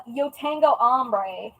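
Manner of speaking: yo tengo hambre spelt out slowly; careful learner's Spanish; slow Spanish phrase. Retold or imitated. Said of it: "I tell my husband".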